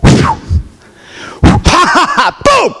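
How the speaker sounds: shrieked high ha, then a sharp boom; mocking laugh then boom. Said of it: "all David's hearing is".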